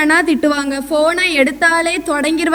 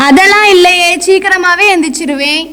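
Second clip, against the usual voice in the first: loud denial; 5 dB louder than usual. Real, not acted. Daughter denies sleeping late.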